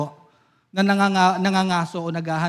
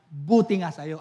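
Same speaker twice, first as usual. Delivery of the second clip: serves you right; 4 semitones lower than usual. Shown as a demonstration. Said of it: "Ah, buti yan sa'yo".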